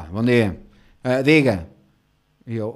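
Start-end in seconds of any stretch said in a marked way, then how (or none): 0.0-1.7 loud, brusque imitation; rude clerk. Rude clerk answering his greeting, loud and curt. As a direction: bark it like an ill-mannered clerk. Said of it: "Mal educada".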